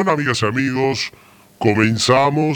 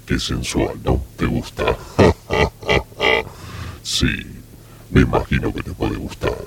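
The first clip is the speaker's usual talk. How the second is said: deep sultry self-admiring voice; low velvety seductor boasting; voz sensual; 12 semitones lower than usual. Pretend. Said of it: "qué voz sensual tengo". (voz sensual muy grave)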